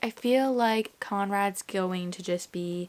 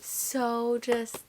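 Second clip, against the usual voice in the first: ordinary talk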